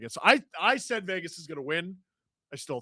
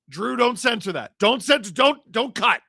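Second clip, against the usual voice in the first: loud protest; 4 semitones higher, 5 dB louder than usual. Real, not acted. Streamer yells at co-host live.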